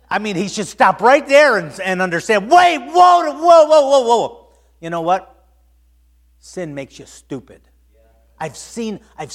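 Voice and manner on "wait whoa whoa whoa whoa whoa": high, loud string of calls; alarmed shout. Acted. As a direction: shout to halt everything at once. Acts stopping short in shock.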